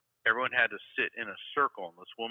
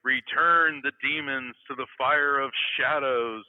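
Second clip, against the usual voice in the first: slow, loud mock incantation; ritual proclamation; 3 semitones higher, 6 dB louder, slower than usual. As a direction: proclaim it like an exorcist, drawn out. Witch doctor's ritual pronouncement retold.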